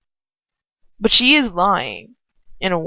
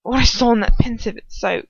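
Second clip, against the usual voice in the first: breathy, choked-up start of words; mild choking grief. Acted. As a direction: force the words past a tight throat. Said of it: "he chokes again".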